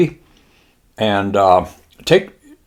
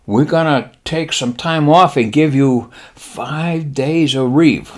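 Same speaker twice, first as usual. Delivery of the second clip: slow, higher mock-Japanese admiral; 5 semitones higher, slower than usual. Admiral promising pilots leave, slow mock-Japanese voice. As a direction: stretch it out in a Japanese accent. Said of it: "the admiral says".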